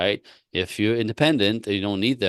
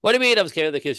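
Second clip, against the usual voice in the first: indignant; 10 semitones higher, much faster than usual. Retold or imitated. Retold quarrel with wife.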